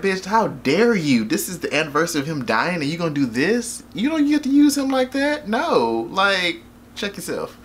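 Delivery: mildly indignant mom, pitch climbing; acted-out scolding that rises high midway; mock scolding mother. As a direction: tell her off as an outraged mama, played for comedy. Voicing the mother scolding her daughter.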